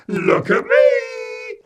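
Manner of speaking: put-on high, loud and slow child's shout; shouting toddler. A narrator's reading. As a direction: yell it out, delighted. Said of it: "Eddie shouted out at us".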